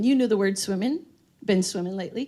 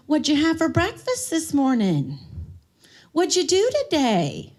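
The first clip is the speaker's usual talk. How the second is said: higher, slow quiz question; quizzing carer voice; 3 semitones higher, slower than usual. Acted. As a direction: probe like a carer testing memory. Quizzing a dementia patient.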